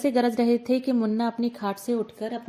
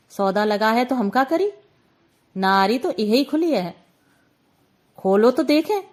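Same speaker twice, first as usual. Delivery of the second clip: taunting; 3 dB louder than usual. Acted. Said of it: "बुआ हाथ चमकाकर बोली".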